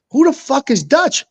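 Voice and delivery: high-pitched imitation of a baffled man; mock incredulous. Retold baffled reply to the friends.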